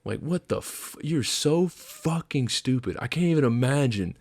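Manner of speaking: retold tirade, rising in pitch as it builds; mock dressing-down with punched swear words; tearing into him. Corporal re-enacting his rant at a dumb private, mock fury. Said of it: "And literally tore into him".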